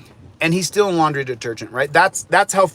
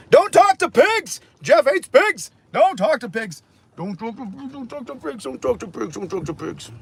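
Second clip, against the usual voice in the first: goofy high voice for the pup; silly dog voice; 8 semitones higher than usual. Acted.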